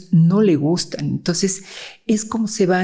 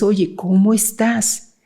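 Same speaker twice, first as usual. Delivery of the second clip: affectionate greeting; 3 semitones higher, slower than usual. Shown as a demonstration. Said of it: "Es el tono de voz, la flexibilidad, el afecto".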